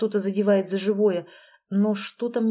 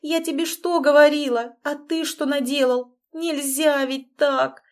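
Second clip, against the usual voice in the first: higher, louder, slow hysterical scolding; 6 semitones higher, 3 dB louder, slower than usual. Acted. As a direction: lose it on the screen. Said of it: "истерика на экране".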